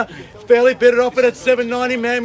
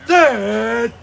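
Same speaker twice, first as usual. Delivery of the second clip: slow drawn-out final calls; auctioneer final calls; slower than usual. Real, not acted. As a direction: call it to the hammer. Final calls before hammer.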